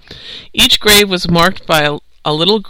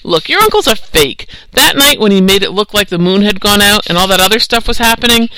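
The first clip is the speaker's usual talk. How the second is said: scornful debunking; 3 semitones higher, 3 dB louder than usual. Acted. Tarby scornfully debunking the uncle.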